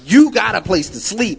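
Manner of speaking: retold friend putting his foot down; retold loud order; insistent command. Friend insists, yanking him back.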